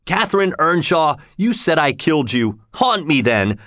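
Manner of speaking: high-pitched, impassioned summons; wild appeal. A narrator's reading. Bereaved lover dares her ghost, wildly. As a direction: call out to the dead, rising at the end. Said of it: "He looked around wildly, saying".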